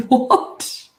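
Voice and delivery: laughing what; laughing disbelief. Real, not acted. Baffled by LinkedIn notification.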